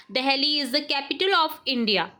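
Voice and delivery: very slow, word by word dictation. Shown as a demonstration. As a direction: read it out slowly for the class to write. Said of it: "teacher dictates sentence". (धीमे-धीमे बोलकर लिखवाना)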